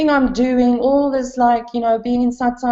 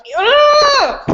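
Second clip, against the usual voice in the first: a sudden high, bright cry of agreement, much higher; mock eager yeah; 13 semitones higher, 4 dB louder than usual. Seeker mocking her own eager agreement, squealed high yeah. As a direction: toss it off like an overeager yes. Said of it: "I'm like".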